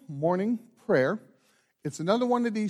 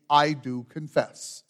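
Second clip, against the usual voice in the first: modelled response; slower than usual. Shown as a demonstration. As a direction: show them the words to answer. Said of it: "then declare by saying".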